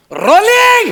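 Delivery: high, stretched bellow; shouted call. Acted. Crew member calling roll beside nervous actor, startling shout. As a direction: holler it out suddenly. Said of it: "अरे, कशाला ओरडतोस?".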